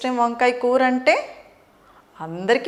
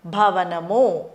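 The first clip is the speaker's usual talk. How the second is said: slow teacher model; much slower than usual. Shown as a demonstration. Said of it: "భ అంటే".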